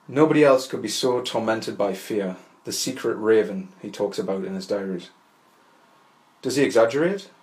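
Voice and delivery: measured, deliberate literary reading; essay read aloud. Acted. Podcaster reading an essay on Kafka to listeners, measured literary reading. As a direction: read it out in full, composed sentences.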